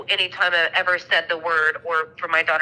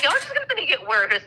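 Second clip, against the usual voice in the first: exasperated mock retort; 9 semitones higher, faster than usual.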